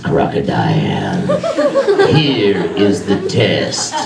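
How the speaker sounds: slow, menacing king lion, drawn out; a hungry lion toying with prey; lion's voice. Acted. Lion speaks in story.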